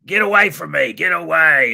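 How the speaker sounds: loud, high New Zealand protest; mock New Zealand yell; thick New Zealand accent. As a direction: imitate an alarmed New Zealander shooing someone off. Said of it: "New, New Zealand accent".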